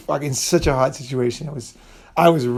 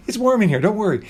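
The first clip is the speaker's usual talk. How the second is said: put-on much higher, sweet coaxing old-lady voice; mock doorway lady beckoning, pitched way up; imitating the cleaning ladies; 6 semitones higher than usual. Love hotel ladies urge the shy girls inside, high coaxing voice.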